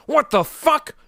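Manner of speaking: shocked. Real, not acted. Shocked reaction to chat.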